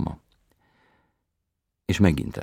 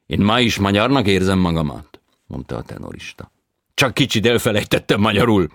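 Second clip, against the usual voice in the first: foreign tenor voice; 6 semitones higher, 11 dB louder than usual. A narrator's reading. Tenor explains.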